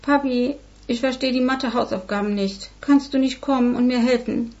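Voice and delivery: leicht höher, quengelnd bittend; bettelnde Tochter. Acted. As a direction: ein Kind, das den Papa herbeilocken will. Tochter bettelt Vater am Telefon. (Tochter bittet Vater am Telefon, etwas höher und quengelnd)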